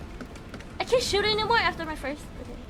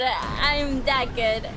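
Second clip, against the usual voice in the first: smug brag; 4 semitones lower, much slower than usual. Real, not acted. Bragging after the win.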